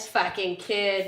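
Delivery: slow mock-Boston jab; Boston accent imitation, drawn out. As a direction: put on a Boston tough talk. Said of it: "like, Boston accent".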